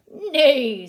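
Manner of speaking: loud neighing; loud playful neigh; horse neigh. Acted. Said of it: "says the horse".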